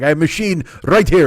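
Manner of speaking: imitated proud old deli man. Deli owner showing his card machine, mildly proud. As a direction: show it off in the deli man's voice. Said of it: "He's all proud".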